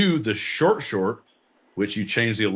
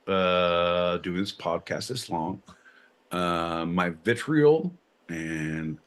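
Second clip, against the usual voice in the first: mock gloom; 4 semitones lower, slower than usual. Mock-grim list of sources.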